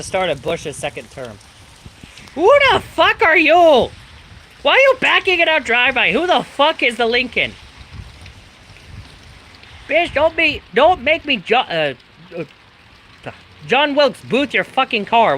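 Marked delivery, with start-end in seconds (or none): 2.3-7.5 much higher and louder furious shouting; furious yelling at a car backing into the driveway; real angry yell. Real, not acted. 9.9-15.4 angry shout. Real, not acted. Yelling at stranger in driveway.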